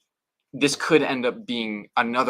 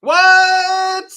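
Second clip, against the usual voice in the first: shocked what; 14 dB louder than usual. Real, not acted. Shocked at unexpected gift.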